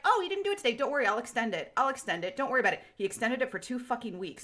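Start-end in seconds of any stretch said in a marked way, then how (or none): 0.0-2.8 a mock owl mascot voice that jumps much higher at first; mock Duo owl. Imitating the Duolingo owl extending her streak, lightly mock-sweet voice. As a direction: lightly play the app owl soothing you. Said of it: "Duo was like".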